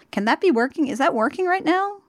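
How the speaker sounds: high disbelieving question; can that really work; incredulous. Real, not acted. Incredulous aside.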